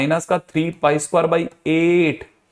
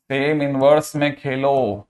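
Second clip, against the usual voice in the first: slow, stretched-out words; slow emphatic repetition; slower than usual. Shown as a demonstration. Teacher drilling a key rule into students, slow emphatic repetition. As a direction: repeat the rule slowly so it sinks in.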